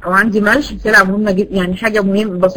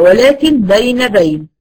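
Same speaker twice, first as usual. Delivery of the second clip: slow teaching; 3 dB louder, slower than usual. Shown as a demonstration. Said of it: "لا يجري ... ولا ينحبس".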